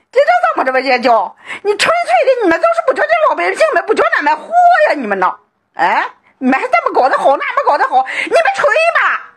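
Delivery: high, crying complaint that breaks into a shout; high crying lament at the officials over the flood; wailing lament. Real, not acted. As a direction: sob out the grievance at the officials. Villager wails at officials over flood.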